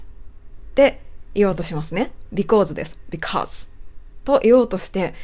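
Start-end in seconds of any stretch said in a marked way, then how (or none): 3.1-3.7 "because" with tongue lying flat, no R colour; softer, lower model "because", tongue tip down. Shown as a demonstration. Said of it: "舌は全部ベターっと寝たまま発音する".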